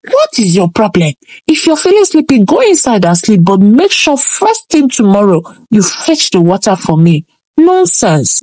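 a hint of an exasperated mother; scolding mother. Mother scolding Nala for coming back without water, mild. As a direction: nag her like a fed-up parent, lightly voiced.

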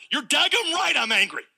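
Jonah exploding, high pitched; explosive anger. Retold or imitated. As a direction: hurl it back at God. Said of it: "he explodes back to God".

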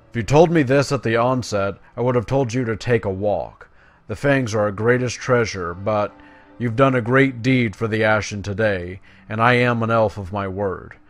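lightly voiced, urgent quest-giver; earnest elf commander. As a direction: read it as an elf leader rallying a champion. Reads quest-giver's dialogue aloud.

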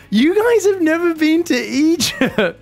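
high, loud, drawn-out mock indignation; hammed-up incredulous accusation; mock outrage. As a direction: scold the audience in pretend disbelief. Mock outrage at chat doubting accent.

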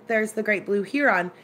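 "heron" said HEE-ron, long ee; pointing out a "heron" as a HEE-ron; HEE-ron pronunciation. Retold or imitated. Telling the friend about the bird, "heron" said HEE-ron. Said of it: "when I said this to her".

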